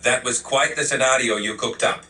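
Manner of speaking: put-on lightly accented stern Bavarian man. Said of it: "make it Bavarian, an angry Bavarian man".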